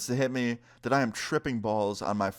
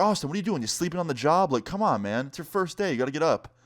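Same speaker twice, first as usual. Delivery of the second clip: higher-pitched mock boss voice, scolding; a hint of a nagging boss, pitched up; imitating the boss; 6 semitones higher than usual. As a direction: boss telling off the new guy, mildly mocked and pitched higher. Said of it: "He's like".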